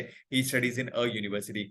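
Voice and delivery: he studies in a university, spoken slowly and softly; slow, sung यूनिवर्सिटी at the end; slow model sentence. Shown as a demonstration. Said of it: "तो इसलिए अ आया".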